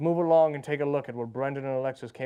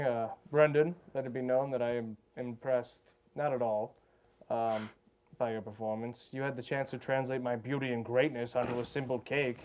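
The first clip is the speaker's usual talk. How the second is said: lightly voiced arrogant Taskmaster; looking down on the peasants; haughty judge. Haughty Taskmaster judging contestants.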